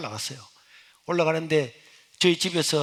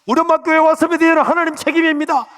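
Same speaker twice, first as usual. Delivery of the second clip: high, loud cry to God; fervent prayer; 12 semitones higher, 10 dB louder than usual. Retold or imitated. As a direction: pray with all his heart. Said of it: "제 마음에". (하나님께 외치는 간절한 기도)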